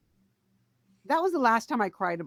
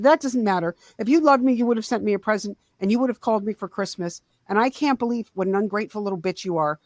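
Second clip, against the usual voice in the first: louder, accusing retort; retold angry rebuke; 5 dB louder than usual. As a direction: act out a mother's guilt-tripping scolding. Mom's acted angry rebuke.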